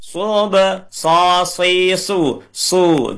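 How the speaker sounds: "sub, sa, si, su" with teeth meeting on the s, then rounded lips; sharp sad sound. Shown as a demonstration. Teacher drilling the letter, s with teeth together then pursed. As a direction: hiss the s, then pout into "su". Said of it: "Jadi giginya ketemu dulu".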